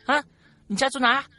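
usual speaking voice

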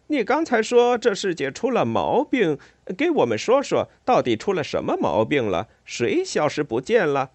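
high, lively rat voice; inquisitive water rat. Acted.

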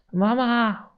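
high, drawn-out cry for mum; wailing yell. A narrator's reading. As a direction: cry out for mother, pitched high. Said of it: "我嗷嗷大叫". (高声叫妈妈)

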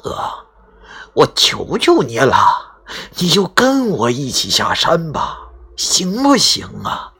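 slow begging that rises at the end; pleading tone. Acted. Qiao begs grandpa to come down with him, pleading slowly. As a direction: beg him, drawn out. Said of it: "类似哀求的语气".

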